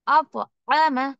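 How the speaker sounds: अतअम drawn out slowly with a bounce on the त; slow qalqala recitation. Shown as a demonstration. Teacher showing students the bounce, slow and deliberate. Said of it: "आवाज में एक तरीके की bouncing".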